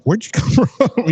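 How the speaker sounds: high, drawn-out startled question, half laughing; retold surprise. Owner finding a forgotten dog, mock surprise. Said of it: "And I'm like".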